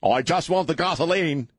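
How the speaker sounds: high-pitched fake Aussie accent; mock Australian accent. Host keeps up the Australia bit, in a high mock accent.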